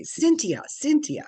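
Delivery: high, loud call across a room. Retold or imitated. Imagineer spotting her in the crowd, calling her name high and loud.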